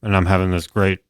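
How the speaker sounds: chewing while talking; messy loud eating. Real, not acted. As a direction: mouth full of chicken. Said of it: "talking with my mouth full".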